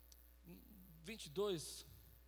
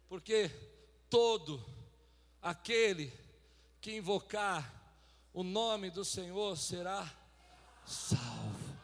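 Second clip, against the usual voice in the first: solemn scripture recitation; 2 semitones lower, 4 dB louder, much slower than usual. Real, not acted. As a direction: declaim the verse piece by piece, sinking at the end. Solemn recitation of a Bible verse. (recitação bíblica solene e pausada)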